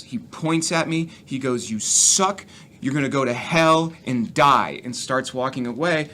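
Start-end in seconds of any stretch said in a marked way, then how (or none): 1.7-4.8 retold angry yell. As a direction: spit it out like the furious heckler. Heckler yells at comic.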